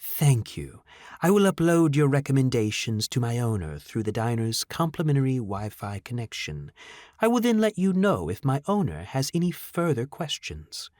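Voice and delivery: even, unhurried android courtesy; smooth robot voice. Acted. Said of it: "The soothing speech of the mechanical".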